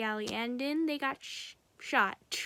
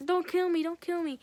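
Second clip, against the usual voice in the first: higher, louder frightened begging; retold pleading; 6 semitones higher, 4 dB louder than usual. Small man begging Joker not to kill him, mock frightened plea. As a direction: beg for your life in quick repeats.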